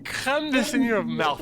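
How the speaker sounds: hammed-up Korean accent; bad Korean accent. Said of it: "in a bad Korean accent".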